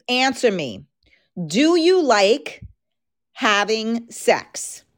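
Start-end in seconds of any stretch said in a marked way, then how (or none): 1.4-4.8 slow and teasing, stretched out; slow, drawn-out question. Shown as a demonstration. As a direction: drag the question out slowly. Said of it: "That's my question".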